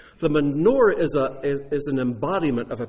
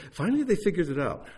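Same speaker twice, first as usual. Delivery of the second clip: amused; 5 semitones higher, faster than usual. Real, not acted.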